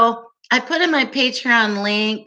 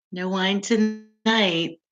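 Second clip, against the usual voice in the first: "No wine tonight." drawn out slowly, softer, falling on "tonight"; slow mock lament; 4 dB quieter, slower than usual. Shown as a demonstration. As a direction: mournfully stretch "No wine tonight", dropping at the end.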